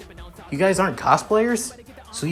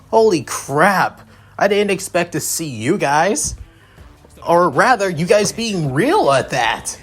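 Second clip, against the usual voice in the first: higher, lightly excited gushing; excited fan; 6 semitones higher, 3 dB louder than usual. Acted. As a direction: rattle off who they are with a touch of fan excitement. Fan character gushes on meeting heroes.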